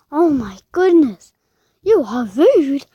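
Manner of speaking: loud indignant outcry; outraged exclamation. Real, not acted. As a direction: call her rude, scandalized. Indignant at a rude player.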